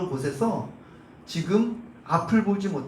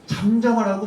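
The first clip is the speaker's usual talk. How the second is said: louder, insistent retold rebuke; crowd's scolding; 5 dB louder than usual. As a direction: scold him to be silent, acting out the crowd. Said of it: "막 호통치는 거예요". (군중을 흉내 낸 꾸짖음)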